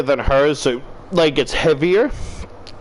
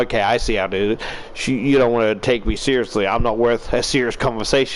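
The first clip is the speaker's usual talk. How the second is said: lower, quick retold sulk; mock wounded; 5 semitones lower, faster than usual. Answering her after she calls him funny, mock wounded. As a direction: play at being slighted, pitch dropped. Playing wounded at not being taken seriously.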